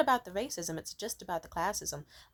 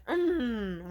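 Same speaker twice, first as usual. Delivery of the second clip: mock disdainful mm; 3 semitones higher than usual. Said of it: "with, like, a thinly veiled hatred".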